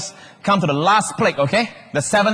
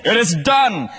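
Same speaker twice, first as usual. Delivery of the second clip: raised, emphatic declaration; Father's proclamation; 4 semitones higher, slower than usual. Acted. Preacher voicing the Father in heaven, proclaiming. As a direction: declare it as a decree from above. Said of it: "his Father saying".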